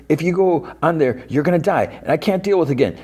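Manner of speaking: very high, whiny mock plea; imitated sobbing plea. Dustin begging Steve not to die, high-pitched imitated distress. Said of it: "And he's, like, sobbing".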